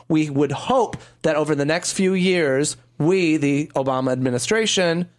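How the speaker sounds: lightly voiced Chicago accent; formal speech, a hint of Chicago. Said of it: "I'll do a, a Chicago accent".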